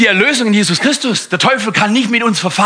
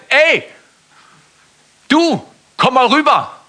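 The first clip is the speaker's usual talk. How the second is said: frecher Papagei; 7 semitones higher, slower than usual. Acted. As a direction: call him over like a cheeky parrot. Papagei ruft im Witz. (frecher Papagei, hoch und laut rufend)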